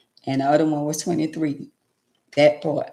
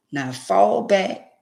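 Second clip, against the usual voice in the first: slow command; 3 semitones higher, much slower than usual. Retold or imitated.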